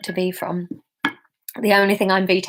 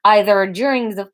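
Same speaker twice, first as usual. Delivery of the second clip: put-on Russian accent; 3 semitones higher than usual. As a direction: press gently in a Russian accent. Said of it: "This is Russian really based on Gru".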